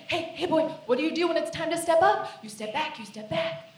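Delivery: training a dog; coaching husband like a puppy. Acted. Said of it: "I have to say".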